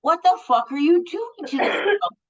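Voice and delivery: retold outraged outburst, high-pitched; high, indignant challenge, acted out in the retelling; livid confrontation. Woman confronts a Karen bullying a shop girl, livid.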